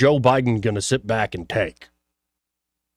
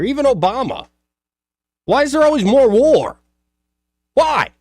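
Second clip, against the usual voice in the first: high, louder indignant cry; exasperated outburst; 11 semitones higher, 5 dB louder than usual. Real, not acted. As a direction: demand it in exasperation. Exasperated rant about war.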